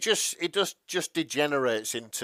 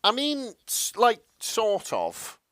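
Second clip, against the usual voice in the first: much higher, disbelieving stammer; incredulous; 10 semitones higher, slower than usual. Real, not acted. Friend hears the Loki horse story, incredulous and high. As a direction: caught off guard, stammering. Stunned reaction to Loki fact.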